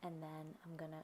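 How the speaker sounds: words round a mouthful of water; water held in mouth. Real, not acted. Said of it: "sorry, I have water in my mouth".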